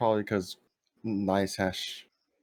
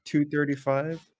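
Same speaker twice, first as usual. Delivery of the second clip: loud; 5 semitones higher, 5 dB louder than usual. Real, not acted. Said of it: "'Cause he's, like, yelling".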